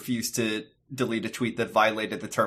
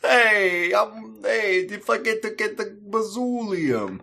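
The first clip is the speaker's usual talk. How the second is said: honking voice; 10 semitones higher, slower than usual. Pretend. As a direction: squawk it like a goose. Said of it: "You sound like Goose from".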